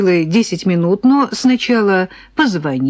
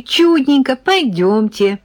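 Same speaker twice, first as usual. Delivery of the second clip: high, pleased lilt; slowing into a drawn-out, pleased invitation; delighted; 5 semitones higher, slower than usual. A narrator's reading. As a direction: usher the guest in with chirpy delight. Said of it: "обрадовалась Зина".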